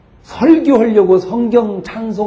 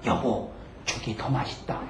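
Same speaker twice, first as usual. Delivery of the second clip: hushed, nearly whispered comfort; very soft, low, tender murmur; consoling wife; 7 semitones lower, 15 dB quieter than usual. Retold or imitated. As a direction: imitate a wife gently soothing her husband. Wife consoles husband gently.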